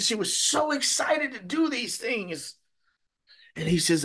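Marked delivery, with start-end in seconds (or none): 0.0-2.6 high-pitched, swept up in her excitement; excited retelling. Retold or imitated. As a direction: let the pitch soar as you relay her delight. Retelling the mother's joyful excitement.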